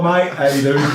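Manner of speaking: put-on Australian accent, fumbled; shaky grasp of an Australian accent. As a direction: attempt an Australian greeting. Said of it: "I forgot I'm Australian".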